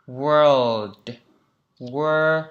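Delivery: world with the tongue curled back on the R. Shown as a demonstration. Teacher modelling the R in world slowly. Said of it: "cong lưỡi vào".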